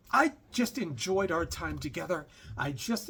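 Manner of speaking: half-hearted accent impression; lightly imitated accent; Doctor Ruth. Passenger thanking her driver, horrible mock accent. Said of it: "I'm doing a horrible accent here".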